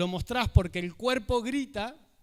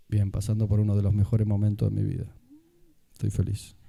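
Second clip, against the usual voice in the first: good news said low, dull and joyless; telling happy news like it's a funeral; sad flat voice; 12 semitones lower, 5 dB louder than usual. Shown as a demonstration. Speaker shows how a sad tone betrays happy words.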